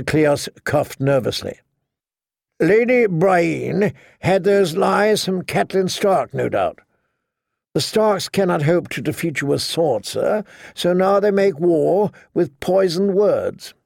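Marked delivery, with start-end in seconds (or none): 2.6-13.7 put-on eager young knight. Sir Cleos defends Jamie.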